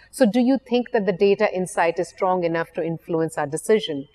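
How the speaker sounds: statement turned into a question, pitch lifting at the end of decision; rising upspeak tune. Retold or imitated. Client asks her management with a questioning upspeak rise. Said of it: "There is a rising intonation at the end of that statement".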